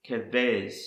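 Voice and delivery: "kavez" as kuh-VEZ, falling at the end; Hebrew pronunciation. Shown as a demonstration. Teacher repeating a Hebrew word, kavez pronounced kuh-VEZ. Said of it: "Again, it is the word".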